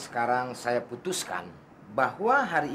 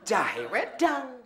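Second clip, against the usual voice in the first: high, slow, whiny mimic of Pakde calling; mimicking the boss; 12 semitones higher, 4 dB louder, much slower than usual. Servant mocking boss's whiny summons for coffee. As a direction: drag out the drink names like a demanding old master. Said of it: "manggil lagi".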